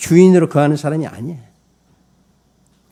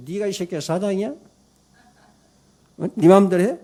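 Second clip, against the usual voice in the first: retold scolding, pitched up without full shouting; angry owner; 6 semitones higher than usual. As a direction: act out an indignant boss telling off staff. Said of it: "그러면서 막 화를 내는 거야". (화내는 사장을 흉내 내는 높은 목소리)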